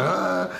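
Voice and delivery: short high mock yell of panic; a retold, half-hearted freak-out cry. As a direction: yelp it like a man losing it. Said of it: "freaking out".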